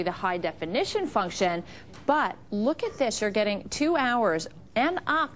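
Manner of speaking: upbeat sales pitch; home shopping host. Acted. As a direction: sell it like a TV host.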